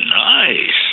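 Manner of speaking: very high, loud, admiring, drawn-out nice.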